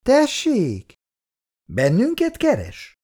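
high, slow, condescending maid; haughty young maid asking. Acted. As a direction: look down on the two lads. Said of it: "gőgösen végigmérte őket".

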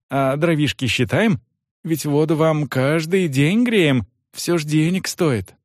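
fawning innkeeper. Acted.

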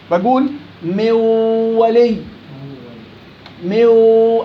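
من ولي with the nasal hum carried into و; slow nasal drill; partial merging. Shown as a demonstration. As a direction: hum slides into و. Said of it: "هاي غنة ولساني عند الواو".

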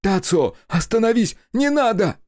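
very high, loud panicked yell; shout. A narrator's reading. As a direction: scream to stop the gunman. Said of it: "закричал".

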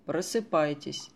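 slow, drawn-out soothing command; slow hypnotic wake-up. Acted. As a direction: ease the sleeper awake gently. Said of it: "посидите немного и просыпайтесь". (медленно, убаюкивающе)

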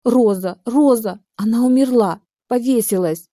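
near-tears wail of bad news; sobbing. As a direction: cry out the news through tears. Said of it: "Она всхлипнула".

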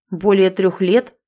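slow, loud stunned echo. Acted. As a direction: repeat it in shock. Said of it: "ошеломлённо".

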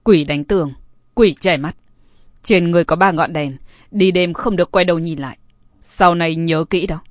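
low, firm warning to a stranger. Acted. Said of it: "trầm giọng nói".

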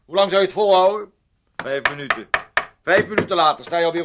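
angry taunt. Acted. Heated quarrel, taunting him.

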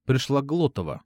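plain reading voice

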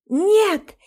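high, loud cry of horror; a sudden high wailing no; anguished scream. Acted. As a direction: scream no as if seeing death. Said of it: "Плачу навзрыд".

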